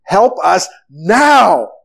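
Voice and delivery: slow, drawn-out cry for help; mock panicked plea. Disciples begging Jesus for help, mildly acted panic. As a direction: stretch it into an acted, urgent appeal. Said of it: "when the kids panicked".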